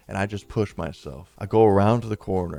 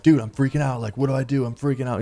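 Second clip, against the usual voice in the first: mild mock panic, higher pitch; retold panic; 4 semitones higher, faster than usual. Narrator pleading to friend on the cliff, mildly panicked. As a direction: act out freaking out, pitched up. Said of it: "I look over to my friend like".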